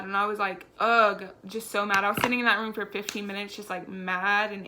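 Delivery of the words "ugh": loud exasperated ugh; frustrated groan. Retold or imitated. Sitting alone in the room, a loud angry ugh. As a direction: let out a fed-up groan.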